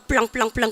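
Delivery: "블랑블랑블랑" rattled off on one level pitch; toneless Daegu speech. Retold or imitated. Foreigners describing Daegu accent, toneless "블랑블랑블랑". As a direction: say "블랑블랑블랑" quickly with no tune. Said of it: "성조가 절대 없다 그래요".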